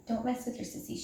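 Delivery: hushed warning so the kitten sleeps. Real, not acted. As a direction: drop to a hush, sister is sleeping. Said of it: "She's sleeping".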